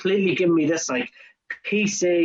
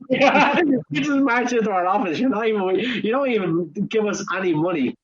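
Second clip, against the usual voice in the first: exasperated outburst; 4 semitones higher than usual. Retold or imitated. Manager fed up with a visitor who pays nothing, exasperated. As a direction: let the exasperation burst out on the first word.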